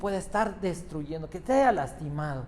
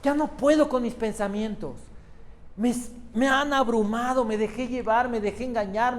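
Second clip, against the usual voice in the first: retold cry to God; 4 semitones higher than usual. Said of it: "y grité y le dije".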